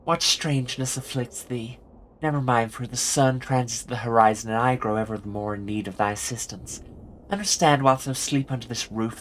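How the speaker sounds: put-on theatrical Early Modern English accent; archaic Shakespearean speech. Jessica the landlady addresses her lodger in a Shakespearean accent. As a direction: declaim like an old-time English player. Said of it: "start talking like this".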